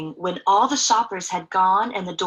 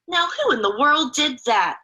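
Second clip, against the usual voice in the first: exclaiming watchman; 4 semitones higher than usual. Acted. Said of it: "he exclaimed".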